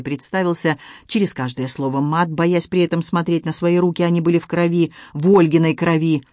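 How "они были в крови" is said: ordinary delivery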